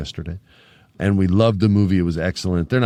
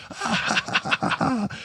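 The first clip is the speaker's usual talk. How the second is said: mock villain laugh; 5 dB quieter than usual. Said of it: "and he's laughing".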